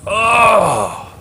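slow, crying-out oh of distress; overwhelmed cry; anguished groan. Retold or imitated. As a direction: let the weight crush out a groan. Describing being overwhelmed at night.

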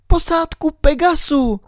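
put-on high girl's voice, worried; little girl Alenka. A narrator's reading. Alenka whispers her worry to herself, in a high girl's voice.

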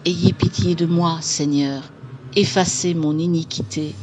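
loud, solemn ghostly chant; ghostly psalm. Acted. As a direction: intone it like a ghost praying.

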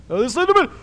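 very high, loud squealing; shrieking hysterics. Real, not acted. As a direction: shriek at the sight of the monster. Slenderman walks toward player.

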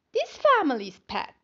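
spider voice. Acted. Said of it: "And she says".

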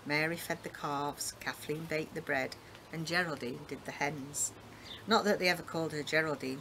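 steady, even read-aloud voice; story narration. A narrator's reading. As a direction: read it like a book on tape. Reads a novel excerpt aloud.

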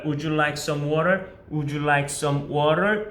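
very slow, each word drawn out, rising on "water"; teacher spells out "would you like some water" slowly for students to copy; slow model sentence. Shown as a demonstration. Teacher modeling a waiter's question for students, very slow and rising. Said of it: "이렇게 많이 물어본단 말이죠".

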